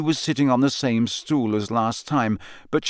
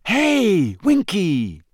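higher, louder call across the room; 10 semitones higher, 4 dB louder, much slower than usual. A narrator's reading. Harry calls over to Winky, loud and bright. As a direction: get her attention. Calling out to elf.

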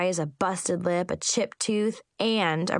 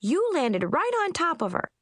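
gushing; 9 semitones higher than usual. Acted. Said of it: "Chip gushed".

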